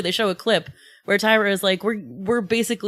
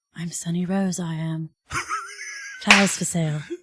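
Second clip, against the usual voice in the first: quiet, private whisper; 2 semitones lower, 3 dB quieter than usual. Describing a favorite moment of the episode, retelling a whisper to herself. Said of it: "she just whispers to herself".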